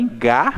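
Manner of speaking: ga isolated as the strong syllable; stressed syllable alone. Shown as a demonstration. Teacher names the first syllable, ga stressed alone. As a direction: set ga apart with weight. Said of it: "recebeu uma tonicidade maior".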